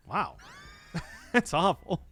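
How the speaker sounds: normal talking voice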